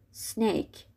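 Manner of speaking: "سنیک" starting on pure s; correct initial s. Shown as a demonstration. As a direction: begin "سنیک" with no vowel before the s. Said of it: "تلفظ درستش اینجوریه". («سنیک» با سِ ساکن در اول)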